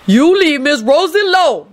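high, scolding holler; indignant high Southern-style scolding. A narrator's reading. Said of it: "Lucretia hollered".

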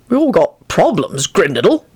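mildly irritated remark; a touch of irritation; irritable. Acted. Arthur brushes off Grindlittle's grief, mildly irritable. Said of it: "Arthur said irritably".

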